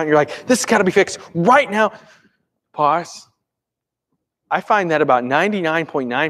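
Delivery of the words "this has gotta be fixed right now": urgent, higher-pitched demand; freaking out. Acted. Person in a desperate situation demanding a fix, freaking out. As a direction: insist with mild panic. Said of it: "you're freaking out".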